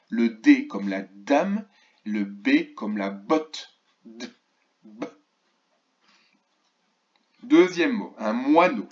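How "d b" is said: "D" and "B" as short, separate consonant sounds; isolated letter sounds. Shown as a demonstration. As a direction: sound out "D", then "B", with a pause between. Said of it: "ne font pas le même son". (sons isolés de « D » puis « B », brefs et séparés)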